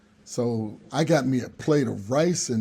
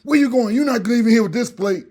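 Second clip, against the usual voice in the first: high, louder mock scolding; mock angry host; 9 semitones higher, 5 dB louder than usual. Host blocking guest with his plate, high mock anger. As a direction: stop him at the door, indignant. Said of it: "And the guy says".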